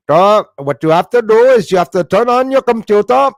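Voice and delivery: high, loud put-on scam-caller voice; mock scammer voice. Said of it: "Why are you talking like that?".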